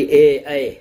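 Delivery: اے as an open "e, ae", not a pure ee; wrong "ae" sound. Shown as a demonstration. Teacher picks out the faulty vowel, اے as open ae. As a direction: sound اے broadly, without closing to ee. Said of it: "اے کی آواز".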